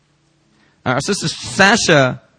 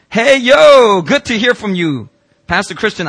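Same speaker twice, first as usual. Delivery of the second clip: much higher and louder, bright and bouncy; cheerful greeting; 8 semitones higher, 6 dB louder, slower than usual. Acted. Pastor reading Peter's casual message aloud, upbeat and excited. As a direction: greet like an excited young friend.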